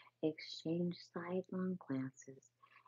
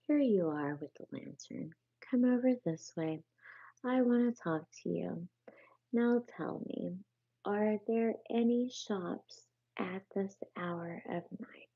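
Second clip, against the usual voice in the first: louder, higher, taking charge; commanding rat; 3 semitones higher, 4 dB louder than usual. Acted. Brisk rat giving orders. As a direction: rat questioning the field mouse about shops, commanding. Rat instructing field mouse.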